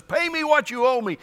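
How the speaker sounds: high-pitched creditor's demand; mock demand. Preacher voicing the unforgiving servant collecting five bucks, mock demand. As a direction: demand payment as if grabbing someone's throat. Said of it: "by the throat and says".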